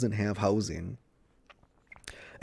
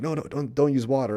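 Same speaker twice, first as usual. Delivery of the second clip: higher, urgent no-no-no; mock urgent warning; 5 semitones higher, 3 dB louder, faster than usual. Sydney stopping Cecilia from pouring water, urgent. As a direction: stop her hand before she throws the water.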